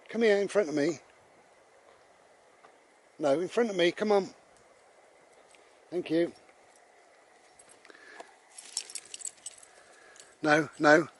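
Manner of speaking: high, firm commands; directing the dog. Real, not acted.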